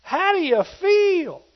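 high, loud, slow holler into the fire; hollered question. Retold or imitated. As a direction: call out slowly into the furnace. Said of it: "he hollered in there".

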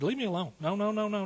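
high, re-enacted protest; emotional refusal. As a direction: act out begging to be left alone. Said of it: "I was getting real emotional".

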